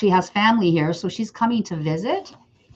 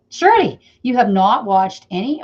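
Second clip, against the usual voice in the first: mock disbelief; 6 dB louder than usual. Real, not acted. To a viewer who hasn't watched the show, incredulous. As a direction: call out a friend in disbelief.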